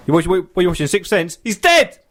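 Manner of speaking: mock shout building to a laughing yell; gleeful spoiler-blurting yell in a cinema.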